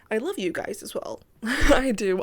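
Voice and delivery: breathless, catching her breath. Real, not acted. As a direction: talk while short of breath. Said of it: "sorry for being out of breath".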